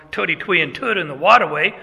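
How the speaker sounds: quick put-on New York accent; mock New York accent. Preacher illustrating a giveaway accent, in mock New York speech. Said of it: "if somebody's from".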